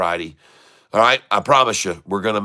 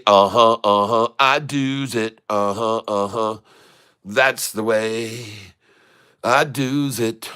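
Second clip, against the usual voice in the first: smug singsong. Pretend. Trader gloating to viewers over his sale, slow smug singsong. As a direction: gloat it lazily.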